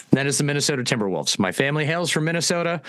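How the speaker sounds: put-on a faint, half-hearted Minnesota accent, quick; bad Minnesota accent. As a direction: toss off a weak Minnesota accent. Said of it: "that was a horrible Minnesota accent".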